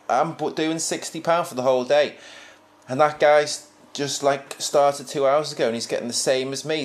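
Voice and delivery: high, loud, whiny complaining; indignant worker. Retold or imitated. First worker complaining to the farmer about equal pay, whiny and indignant. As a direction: huff and protest that it's not fair.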